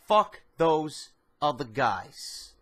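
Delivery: slow, deliberate catchphrase delivery; slow signature sign-off. Shown as a demonstration. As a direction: lean on each word of the signature line. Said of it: "I haven't said this phrase".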